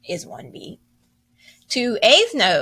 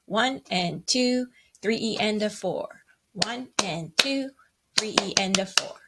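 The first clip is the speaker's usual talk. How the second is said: counting aloud. Shown as a demonstration. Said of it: "Let's do the count".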